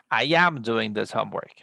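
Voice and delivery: "am" given extra weight, then falling; stress on AM. Shown as a demonstration. Teacher showing emphasis on verb to be, stress on AM. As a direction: punch "am" to show emphasis. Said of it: "place a special intonation on the verb to be".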